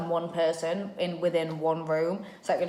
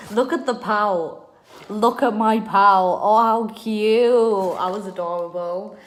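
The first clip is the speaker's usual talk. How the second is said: higher, louder, drawn-out squeals of disbelief; amused mock horror; 4 semitones higher, 8 dB louder than usual. Real, not acted. Showing viewers her old photo, loud and delighted. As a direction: gush and cringe at the picture.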